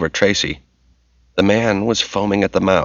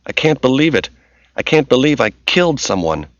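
distraught; 6 semitones higher than usual. Acted. Tracy in shock after killing.

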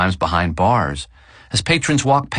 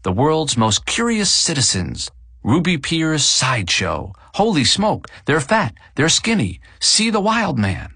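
high, brash sideshow barker; carnival barker; 6 semitones higher than usual. A narrator's reading. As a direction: sell the freaks like a barker. Sideshow sign read as barker.

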